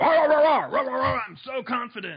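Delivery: loud barking, yelling bluster. Acting out loud, barky confidence: mock yelling. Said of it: "like I'm yelling at you right now".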